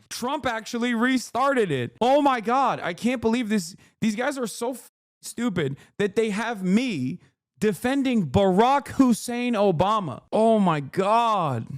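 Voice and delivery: high-pitched incredulous rant; high, exasperated amazement; exasperated disbelief. Real, not acted. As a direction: wail in disbelief at the irony. Exasperated at defending Obama.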